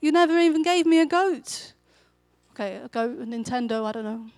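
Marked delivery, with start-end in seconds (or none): 0.0-1.7 mock angry complaint. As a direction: sulk it out like a cheated older son. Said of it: "he's like".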